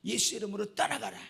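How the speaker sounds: loud, forceful command to leave; fervent deliverance prayer, loud; commanding prayer shout. Retold or imitated. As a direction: cast it out with a loud rebuke. Pastor acts out exorcism prayer.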